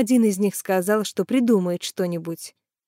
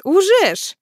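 much higher, louder amazed cry; 11 semitones higher, 5 dB louder than usual. A narrator's reading. The driver marvels at the women, high and loud. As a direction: marvel at how fast. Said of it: "удивился благодушный таксист".

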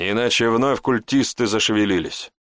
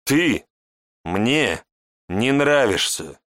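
hissed through teeth; 3 semitones higher, much slower than usual. A narrator's reading. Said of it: "процедила Шантра".

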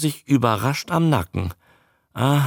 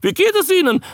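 high, squawked courtesy; be civil in a croaking newt voice; high-pitched creature pleasantry; polite newt; 5 dB louder, faster than usual. A narrator's reading. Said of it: "meinte Andreas höflich".

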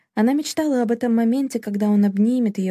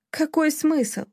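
cried out; 7 semitones higher, much slower than usual. A narrator's reading. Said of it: "крикнула Селина".

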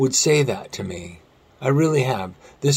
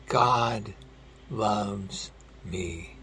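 hushed confession; 4 semitones lower, 10 dB quieter, much slower than usual. Retold or imitated. Retelling tearful friend's confession.

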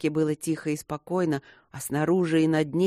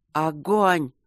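громче обычного, коротким боевым приказом; выкрикни команду, как в бою; командный выкрик; 4 dB louder than usual. A narrator's reading. Команда стрелять посреди боя. (командный выкрик)

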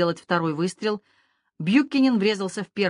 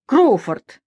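put-on loud, higher-pitched call of a drunk man; hoarse drunken shout; 5 semitones higher, 8 dB louder than usual. A narrator's reading. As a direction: call out roughly across the beach. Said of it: "Голос был хриплым от сигарет и алкоголя". (хриплый пьяный окрик)

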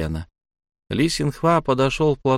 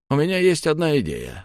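evil smirk; 6 semitones higher than usual. A narrator's reading. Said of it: "злобно ухмыльнувшись".

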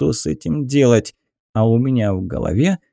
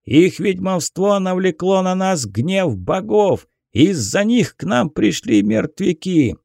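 angry peasant shouting; 6 semitones higher than usual. Acted. Peasant harangues the captain.

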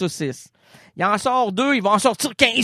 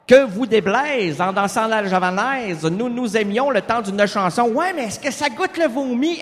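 Blaise Pascal voice; 3 semitones higher than usual. Acted. Acted Pascal dialogue.

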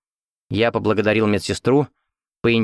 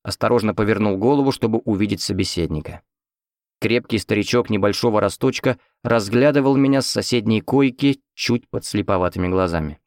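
ordinary delivery

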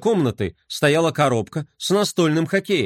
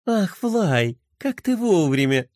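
с улыбкой; 3 semitones higher, slower than usual. Acted. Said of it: "улыбнулась Пинки".

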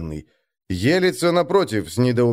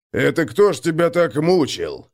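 stunned father; 4 semitones higher than usual. A narrator's reading. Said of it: "опешил отец".

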